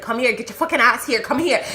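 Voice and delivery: fast, heated "get over here" energy; angry retold demand. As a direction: call him over in a temper. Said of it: "I was so angry".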